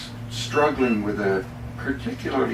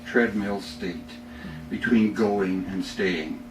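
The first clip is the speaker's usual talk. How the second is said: poem reading. Acted. Reads his own poem aloud.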